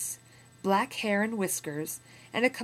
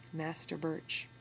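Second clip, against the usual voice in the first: wry echo; 5 dB quieter, slower than usual. Shown as a demonstration. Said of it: "A lot has changed, huh?".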